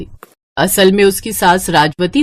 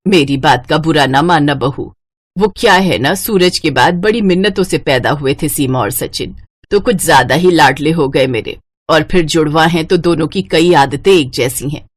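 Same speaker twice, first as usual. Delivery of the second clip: put-on old mother-in-law, apologetic; 4 semitones lower than usual. Mother-in-law explains gently to daughter-in-law.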